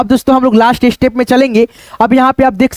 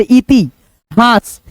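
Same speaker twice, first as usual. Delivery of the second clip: slow syllable reading; much slower than usual. Shown as a demonstration. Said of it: "पहले मन में हम लोग उच्चारण".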